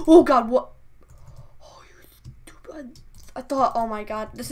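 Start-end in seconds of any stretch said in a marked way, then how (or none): 0.1-0.7 startled cry. Real, not acted. Startled by a scare mid-sentence. 1.6-3.0 hushed, whispered curse after a scare; whispered annoyance. Real, not acted.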